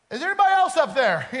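high, loud and quick, breaking into laughter; laughing punchline. Retold or imitated. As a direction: deliver the punchline already laughing. Punchline of the cliff joke.

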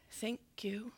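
near-whispered, overwhelmed thank-you; stunned thanks. Retold or imitated. Delivery man seeing the size of his tip, stunned whisper. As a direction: barely get the thanks out, almost voiceless.

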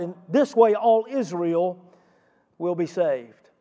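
"this way" slowed and stressed; weight "In this way", then let it fall; slow emphasis on "this way". Shown as a demonstration. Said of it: "Where's the emphasis?".

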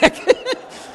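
quick unvoiced giggle; short amused breathy laugh; high breathy laugh. Real, not acted. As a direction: laugh at the absurd reply. Laughs at the owner's reply.

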